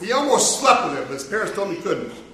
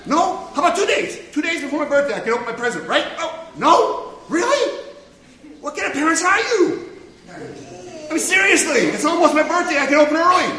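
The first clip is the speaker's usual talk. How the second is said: put-on higher whiny kid's voice, begging; pleading impatient kid; 5 semitones higher than usual. A storyteller voicing Ian begging his parents, higher and pleading. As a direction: nag the parents like a child who can't wait.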